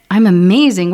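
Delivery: proud gush. Acted. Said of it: "Cupcake says".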